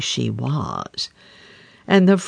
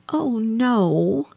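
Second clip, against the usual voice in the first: higher princess voice; a quick denial pitched up; princess answering; 7 semitones higher than usual. A narrator's reading. Princess answering the king, higher pitched. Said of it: "answered she".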